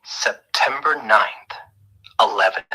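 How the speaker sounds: slow puzzling. Shown as a demonstration. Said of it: "Nine eleven, huh?".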